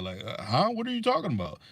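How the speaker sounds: a put-on puzzled voice; mock confusion. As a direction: pretend not to understand at all. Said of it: "don't even know how to act".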